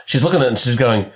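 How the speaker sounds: normal talking voice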